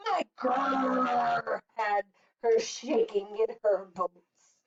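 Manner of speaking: slow, drawn-out bear brag; growling bear. Acted. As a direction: lightly growl like a boastful bear. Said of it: "growled the bear".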